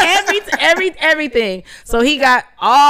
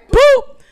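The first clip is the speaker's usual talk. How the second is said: mic slap noise; 13 semitones higher, 6 dB louder than usual. Shown as a demonstration. Demoing the comedian's mic slap.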